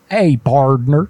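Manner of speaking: slow Southern drawl "Hey, pardner"; imitating the clerk. Host imitating the clerk's Southern partner, slow drawl. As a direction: drawl it like a cowboy. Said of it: "He called you partner".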